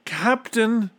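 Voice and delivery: high, urgent plea; high-pitched imploring call; pleading. A narrator's reading. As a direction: beg him to listen. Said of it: "pleaded Bartholomew".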